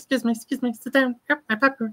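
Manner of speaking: tiny, high, small cartoon critter voice. Speaker recreating their TikTok of a creature in a movie theater; Gizmo voice. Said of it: "me doing Gizmo".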